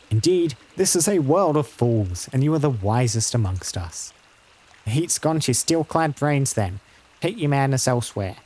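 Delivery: lightly voiced grumbling farmer; a touch of sarcastic dismissal; scornful villager. Villager sending armoured adventurers elsewhere, lightly voiced and scornful.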